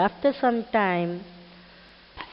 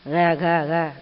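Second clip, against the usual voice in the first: imitated seagull call, dropping lower; lower-pitched mock gull cackle; 3 semitones lower, 4 dB louder than usual. Shown as a demonstration. Teacher repeats the gull's sound for pupils, low imitated cackle. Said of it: "this is how the seagull gives the sound".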